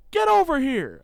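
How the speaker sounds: loud, high imitated coach's yell; re-enacted sideline shout; coach summoning. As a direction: order someone over from across the field.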